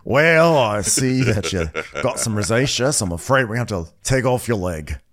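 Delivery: mock doctor. Cohost parodying the doctor captain. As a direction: deliver the absurd diagnosis briskly. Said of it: "him just taking off a limb".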